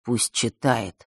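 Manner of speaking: low, muffled, slow command; quietly, flatly order; глухо. Acted. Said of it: "глухо велел он". (глухой медленный приказ)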